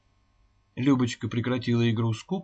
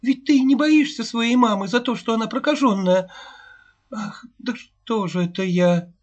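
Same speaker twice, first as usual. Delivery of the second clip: high, louder tearful questioning; 10 semitones higher, 5 dB louder than usual. A narrator's reading. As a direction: press the child through tears. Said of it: "Рыдая, принялась допытываться". (сквозь слёзы, выпытывая)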